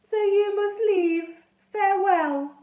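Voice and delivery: put-on high, slow ghost boy with a French-ish accent; funny French-ish accent. A narrator's reading. Ghost boy Edmund speaking.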